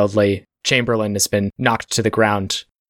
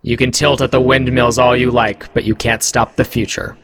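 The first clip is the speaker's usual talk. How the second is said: magically amplified voice; 2 semitones higher than usual. Acted. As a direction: boom it from everywhere at once. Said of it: "interrupted by a booming voice".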